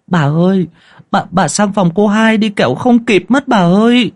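a frightened maid rushing to fetch her mistress; urgent servant's cry. A narrator's reading. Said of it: "giọng gấp gáp của con Tí". (giọng người hầu hốt hoảng, gấp gáp)

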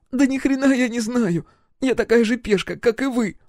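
put-on high girl's voice protesting; high desperate denial. Roxy protests to the captain, high desperate denial. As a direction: insist you are just a pawn, high. Roxy denies knowing anything.

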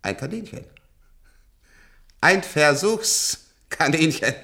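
slow and loud; bitter outburst. Acted. Old patient names himself a test animal, loud and bitter. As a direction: spit it out slowly.

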